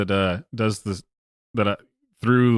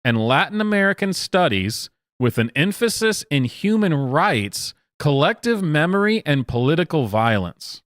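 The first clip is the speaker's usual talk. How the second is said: higher-pitched, singled-out list of credentials; mock student recital; 5 semitones higher than usual. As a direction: imitate a student reciting her majors, pitched up. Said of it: "this person says".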